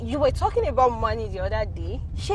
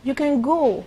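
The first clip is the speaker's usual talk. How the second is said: louder, insistent order; firm repeated dismissal; 3 semitones higher, 6 dB louder, slower than usual. Acted. Boss repeats herself to a lingering staff member, firm. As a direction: send him off more forcefully.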